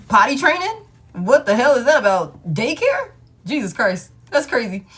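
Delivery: high, loud, horrified questions; aghast. Real, not acted. Reader listing baby chores to her viewers, high and loud with horror. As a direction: recoil at each word.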